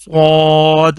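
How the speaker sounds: صاد said thick, with a heavy full s; heavy letter. Shown as a demonstration. Teacher showing pupils the heavy sound of صاد. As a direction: make the s of صاد fat and heavy. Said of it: "یہ بھی موٹا کر کے".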